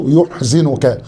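يحزنك slow, yu-h-zi-nk with damma first and kasra on the zay; slow teacher demo of يحزنك; careful spelling-out. Shown as a demonstration. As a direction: say يحزنك slowly with the vowels marked. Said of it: "بضم أوله وكسر الزاي".

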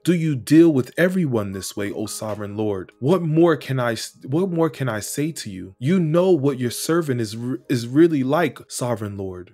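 fervent scripture reading. Acted. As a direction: pray David's words as if they were your own, swelling with awe. Reads scripture passage aloud.

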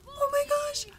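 high-pitched dismay; panicked exclamation. Real, not acted. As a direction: let the pitch leap in alarm. Panic as game character nears death.

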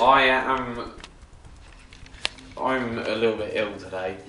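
breathing heavily while talking; heavy breathing. Real, not acted. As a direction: talk through heavy breaths. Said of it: "He's breathing heavily today".

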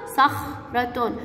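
"صخرة" split slowly into "صخ" and "رة"; very slow, broken-up "صخرة"; sounding out. Shown as a demonstration. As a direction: pause after the خ in "صخرة". Same word then broken up slowly.

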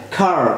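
খার with the r sounded at the end; খার said the American way, r pronounced; American pronunciation. Shown as a demonstration. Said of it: "American যারা, তারা এই আরটাকে উচ্চারণ করে".

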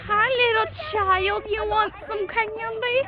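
high, slow creepy candy offer; sweet creepy coaxing. Pretend. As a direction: lure a kid with sugary menace. Creepy stranger bit.

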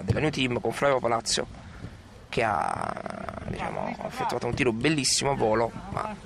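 sports commentator voice; calling the match live; live play-by-play. Acted.

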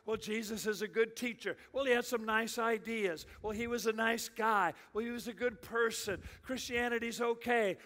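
soft, offhand mock concessions; mildly dismissive imitation; lukewarm secular voices. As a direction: imitate people shrugging Jesus off, softly. Mimics secular world's lukewarm opinions.

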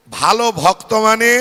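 loud call for the crowd to repeat; mantra call. Shown as a demonstration. Preacher leading the congregation to repeat the mantra, loud call. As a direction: call out the mantra line loudly. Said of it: "আমার পরে পরে বলবেন".

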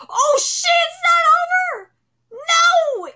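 real shock at the twist; real alarm. Real, not acted. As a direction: shout it as the fight restarts. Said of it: "own alarm at chapter".

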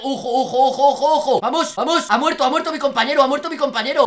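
frantic laughing panic; excited laughing yell. Real, not acted. Frantic parkour section.

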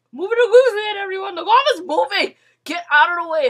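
loud, high shouting orders; bossy yell. Real, not acted. Gamer yelling at players to clear the lava path. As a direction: bark at the crowd to move.

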